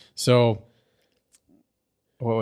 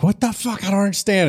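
high squeaky disbelief; mock outrage; 9 semitones higher than usual. Friend mocks Pinkie Pie finding the desserts gone, squeaky outrage. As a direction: play the baffled pony, pitched way up. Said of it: "this is where she's like".

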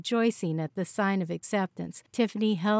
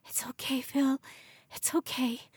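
softer, higher hushed comfort; soothing whisper; 6 semitones higher, 5 dB quieter than usual. A narrator's reading. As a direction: whisper to calm him down.

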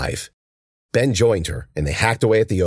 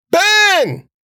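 very high, loud call across the field; shout for help; 7 dB louder than usual. A narrator's reading. Cece calling for Ben from inside the brambles. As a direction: call out desperately.

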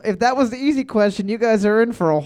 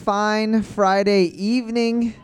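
drawn-out, rolling announcer welcome; game show host opening; 2 semitones higher than usual. Acted. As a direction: open the trivia night like an MC. Host opens the show to room.

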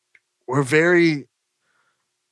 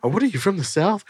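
film character quote; 7 semitones higher, faster than usual. Retold or imitated. Acts out film exchange.

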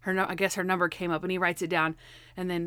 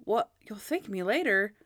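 puzzled echo of a catchphrase; lightly incredulous repeat, near normal pitch; Monk. Retold or imitated. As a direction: question it in understated disbelief. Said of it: "And then Monk's like".

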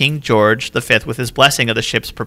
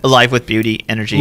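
lightly British royal speech, slightly low; British accent; 3 semitones lower than usual. Acted. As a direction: put on a mild British accent. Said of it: "all this in a British accent".

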